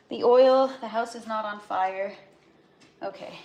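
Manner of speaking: panting after running upstairs; breathless, catching breath. Real, not acted. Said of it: "wow, I'm out of breath".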